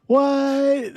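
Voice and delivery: high laughing squeal. Real, not acted. Laughing exchange.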